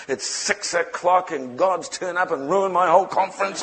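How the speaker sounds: mildly worked-up mock complaint; retold irate organizer. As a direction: play an exasperated organizer, lightly. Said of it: "this guy was just off his face".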